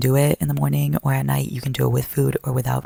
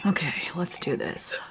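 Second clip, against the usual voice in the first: slow hushed whisper; 3 semitones higher, 5 dB quieter, slower than usual. Acted. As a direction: whisper it slowly to yourself. Whispered pep talk.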